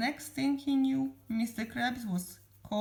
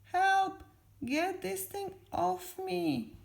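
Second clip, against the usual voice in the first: acted scream, stretched out and high; Patrick; 9 semitones higher, slower than usual. A narrator's reading. Patrick with a tentacle on his face, screaming. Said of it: "screamed Patrick".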